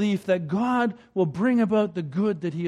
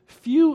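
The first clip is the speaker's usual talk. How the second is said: "few" punched much higher and louder; stress on few; 7 semitones higher, 7 dB louder than usual. Shown as a demonstration. Preacher pointing the congregation at a word, stressed. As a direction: hit the word "few" hard and high. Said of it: "did you notice the words".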